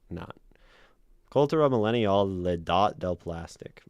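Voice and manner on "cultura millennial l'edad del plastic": put-on French accent. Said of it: "do shitty French accent".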